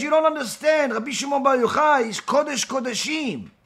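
frightened father warning his son; fearful father's warning. Retold or imitated. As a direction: warn him urgently. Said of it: "He says".

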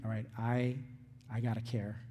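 quiet murmured resolve to stay calm; inner pep talk. Retold or imitated. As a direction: coach yourself under your breath to listen. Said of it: "and you're going".

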